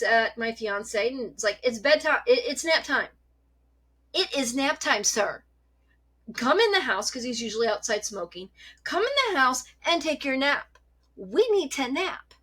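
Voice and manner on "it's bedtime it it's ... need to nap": bossy cat voice. Pretend. Voicing the cat's demands.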